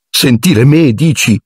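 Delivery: high frightened falsetto; falsetto from fear. A narrator's reading. Ron answering Harry in the dark forest, high frightened falsetto. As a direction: voice squeaking up with terror. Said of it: "con la voce in falsetto dalla paura".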